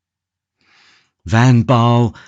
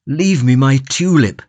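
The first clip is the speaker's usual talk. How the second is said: pleading cry; 4 semitones higher than usual. Acted. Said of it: "cried Van Baal".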